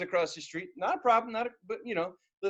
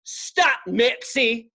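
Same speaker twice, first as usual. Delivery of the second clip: quoting neighbor; 3 semitones higher, 4 dB louder, much slower than usual. Retold or imitated. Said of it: "all come down and say".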